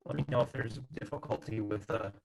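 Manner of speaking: choppy robotic call audio; glitchy robot sound over a bad connection. Real, not acted. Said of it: "you sound like a robot".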